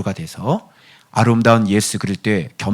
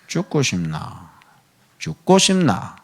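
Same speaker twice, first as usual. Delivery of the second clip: Gyeongsang accent; 4 semitones higher, slower than usual. Shown as a demonstration. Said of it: "경상도 사투리".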